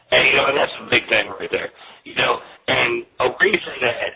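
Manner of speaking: metallic voice filter; tinny phone line, like a tin can. Real, not acted. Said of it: "you sound like you're in a, um, a tin can right now".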